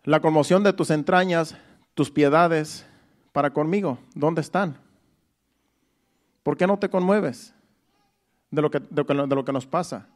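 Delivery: a preacher's lightly voiced anguished prayer; pleading lament. Shown as a demonstration. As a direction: cry out the verse as a hurting soul. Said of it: "Dice ahí".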